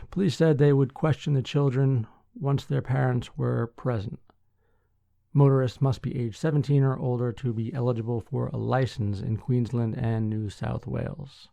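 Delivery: measured newsreader delivery with firm sentence openings; news article read. Acted. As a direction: read the article out clearly to listeners.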